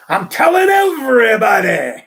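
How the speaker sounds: put-on loud, laughing old-man boast; gleeful punchline shout. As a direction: blurt it out, cracking up.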